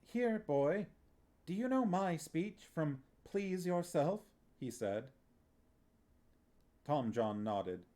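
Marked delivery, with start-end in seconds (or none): 0.0-4.2 put-on grand old playwright. A narrator's reading. Playwright addresses the boy.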